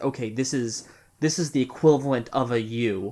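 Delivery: ordinary talk, nothing marked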